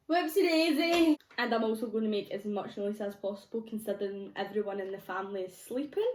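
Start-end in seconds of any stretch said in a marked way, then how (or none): 0.1-1.2 high laughing whoopsie daisy; oops. Real, not acted. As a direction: giggle at your own slip. Mixer was unplugged.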